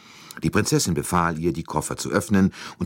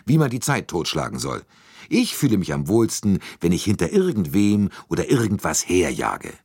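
a hint of a brash American, pitched higher; lightly voiced eager American businessman; lightly voiced brash American salesman; 4 semitones higher, 3 dB louder than usual. Hartmann complains restlessly.

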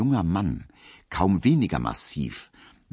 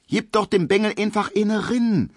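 hefty country woman; 3 dB louder than usual. Acted. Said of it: "sagt der uckermärkische Ackergaul".

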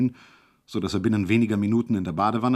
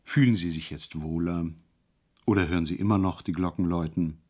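calm, confiding; 5 semitones lower than usual. Acted. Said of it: "in dem ruhigen und vertrauenswürdigen Ton".

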